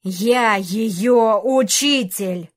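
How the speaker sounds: very slow, loud, thundering dragon voice; booming declaration. Acted. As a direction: proclaim it like a dragon. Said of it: "громогласно произнёс". (громогласно, медленно)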